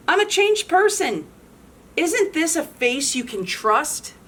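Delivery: high, syrupy innocence; a hint of fake sincerity; sweetly innocent. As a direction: play it too sweet to trust. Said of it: "smiling calmly".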